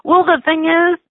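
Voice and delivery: very high, sputtering outrage; stammering indignation. Retold or imitated. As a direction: sputter it, climbing in fury. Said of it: "stammering crescendo of indignation".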